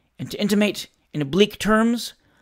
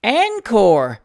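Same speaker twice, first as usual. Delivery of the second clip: louder, hearty Encore! with a falling end; shout; 4 semitones higher, 5 dB louder than usual. A narrator's reading. Plaid-waistcoat gentleman shouts for an encore, bottle on the table. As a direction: bellow Encore! while hammering the table. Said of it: "shouted the gentleman in the plaid waistcoat".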